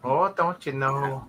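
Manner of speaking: put-on soft, drawn-out Minnesotan accent; lightly imitated Minnesotan lilt; mock Minnesotan accent. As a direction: stretch it out like a Minnesotan. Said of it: "Every time I hear a Minnesotan accent".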